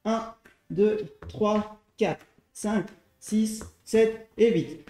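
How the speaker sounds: slow, deliberate rep count; counting workout reps. Shown as a demonstration. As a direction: count each rep out slowly. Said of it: "Et on compte".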